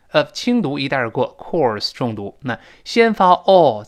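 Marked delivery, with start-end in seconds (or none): 0.1-2.4 "of" said lightly in passing, "course" stressed; unstressed "of", strong "course". Shown as a demonstration. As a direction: skim over "of" and weight "course".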